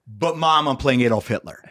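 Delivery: breaking awkward news to mom; pretend actor telling mom. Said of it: "and you go".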